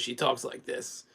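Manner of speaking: slow, lightly done smoker's rasp; a hint of a heavy smoker, dragged slow. Mocking a smoking lady passed on the street, slow rasp. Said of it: "She has the sm-, the smoker's voice".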